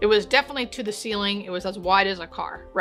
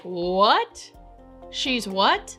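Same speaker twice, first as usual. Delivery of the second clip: shocked disbelief; much slower than usual. Retold or imitated. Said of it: "And I am shocked".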